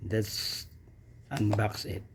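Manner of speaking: hushed whisper of the unboxing. Acted. Whispering to viewers while unboxing. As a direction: breathe it out as a secret.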